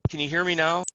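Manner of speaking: choppy call audio; bad connection. Real, not acted. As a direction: still breaking up on the line. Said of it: "you're still popping in and out".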